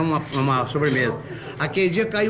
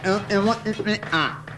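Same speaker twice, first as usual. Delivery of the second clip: stutterer; slower than usual. Acted. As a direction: stall on each word.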